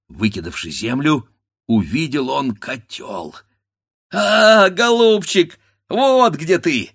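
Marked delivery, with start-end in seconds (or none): 4.1-6.9 higher, louder, triumphant; gleeful cry. A narrator's reading. Grandfather finding the pot, crying out gleefully. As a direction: crow with delight at the find. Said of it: "вскрикнул дед".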